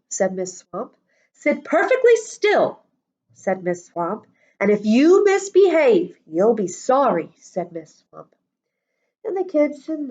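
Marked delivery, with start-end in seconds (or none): 1.3-2.8 high, cutting schoolmistress command; stern teacher. Acted. Strict teacher giving orders. 4.6-7.3 loud warning threat; threatening teacher. Acted. Strict teacher threatening the class.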